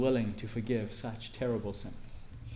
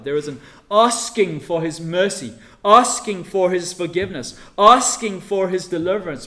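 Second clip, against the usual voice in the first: each asking louder and higher; rising emphasis; 4 semitones higher, 11 dB louder than usual. Acted. Preacher listing pleas for mercy, building emphasis. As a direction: build the plea phrase by phrase.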